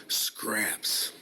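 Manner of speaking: hushed, voiceless repeat of the word; whispered. Real, not acted. Bitter repeated word, no voicing.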